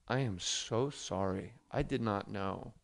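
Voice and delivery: slow, low and soft apology; measured, gentle sorry; retold apology. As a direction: placate him slowly, keeping the voice down. Retold earnest apology to angry workman.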